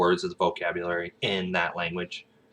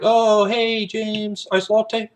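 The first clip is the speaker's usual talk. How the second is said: high, loud mock-Aussie greeting; picked-up Aussie accent; 7 dB louder, much slower than usual. Coffee shop staff greeting an Aussie regular, imitated high Aussie accent. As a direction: call out a sing-song Aussie hello. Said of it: "we kinda picked that up".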